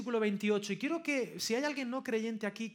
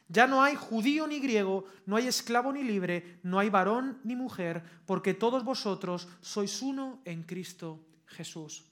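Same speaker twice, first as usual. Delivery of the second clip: loud, measured Bible declamation; scripture reading; 4 dB louder than usual. Acted. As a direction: proclaim each phrase of the verse firmly. Lee Gálatas tres veintiocho. (proclamación solemne de la Escritura)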